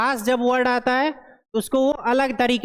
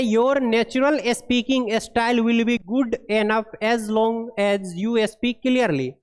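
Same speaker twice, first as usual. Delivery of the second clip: very slow, word-by-word reading of English text; deliberate classroom read-aloud; slow dictation read; much slower than usual. Acted. Reads English guideline aloud.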